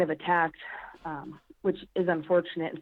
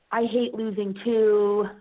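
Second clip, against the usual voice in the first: mimicking Dion; 3 semitones higher, 4 dB louder, much slower than usual. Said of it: "she was like".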